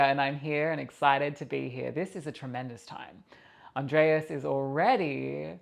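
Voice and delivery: put-on a lightly accented, unplaced voice for the channeled guide; Malia's accent. Channeled guide Malia greeting the viewers, with a light accent. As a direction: speak as the spirit guide, with a slight foreign lilt. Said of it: "have an accent".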